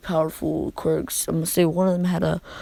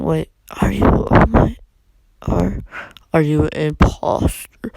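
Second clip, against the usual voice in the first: louder, halting question; alarmed questioning; 5 dB louder than usual. Acted. Izuku to All Might on seeing his true form, alarmed. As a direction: stammer it out in disbelief.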